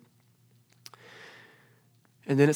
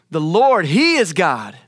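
crowd crying out; 7 dB louder, slower than usual. Retold or imitated. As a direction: call it out loud like a whole crowd. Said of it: "they fell prostrate and cried".

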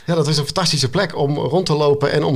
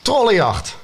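high battle cry, softened for reading; called out; 7 semitones higher, slower than usual. A narrator's reading. Narrator reads the boy's cry of troll hunt, called out. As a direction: call it out high, like a hunting cry. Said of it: "riep ik".

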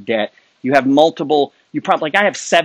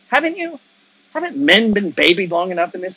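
much higher pointed jab; challenging; 4 semitones higher than usual. Real, not acted. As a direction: call them out sharply.

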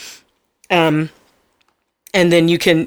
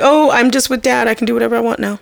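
mock bratty kid; 6 semitones higher, faster than usual. Voices the bratty girl.

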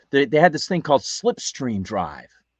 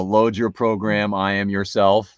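computer voice; 4 dB louder, slower than usual. Retold or imitated. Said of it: "like a Carnival nine third impression".

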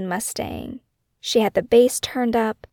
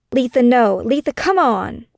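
mild mock yell, louder on the first name; retold scream; 2 semitones higher, 4 dB louder than usual. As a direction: call out her name in alarm. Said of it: "Shay screamed".

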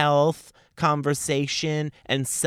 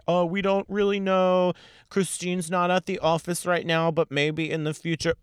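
mock evasive producer; 5 semitones higher than usual. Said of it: "All for them to say".

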